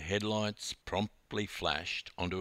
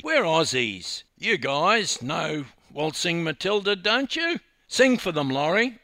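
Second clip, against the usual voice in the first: loud, high, cheerful urging; rally them, getting louder towards the command; bold, breezy rallying; 7 semitones higher, 7 dB louder than usual. A narrator's reading. Dawn telling Laurie to sing for the youths, bold rallying.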